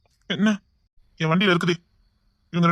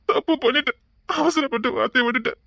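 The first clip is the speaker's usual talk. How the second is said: tearful regret; 2 semitones higher than usual. Acted. Brother regrets hurting him.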